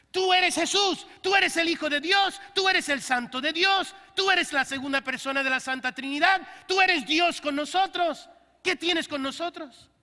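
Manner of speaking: high, loud demon proclaiming; demons testifying. Acted. Preacher voicing demons recognising Jesus, high loud proclamation. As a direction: cry out who he is, as the demons did. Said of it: "estos demonios cuando ven a Jesús dicen".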